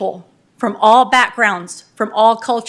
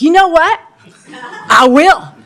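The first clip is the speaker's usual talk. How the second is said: eager yes; 5 semitones higher, 6 dB louder, slower than usual. Retold or imitated. Accepting the mayor's challenge.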